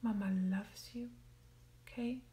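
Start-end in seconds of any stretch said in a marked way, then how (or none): 0.0-1.1 tender mama. Shown as a demonstration. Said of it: "that feeling of being cradled and loved".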